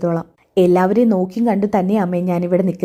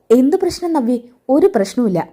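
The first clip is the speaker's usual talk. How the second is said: startled denial; 5 semitones higher than usual. Acted. Adarsh caught off guard, denying.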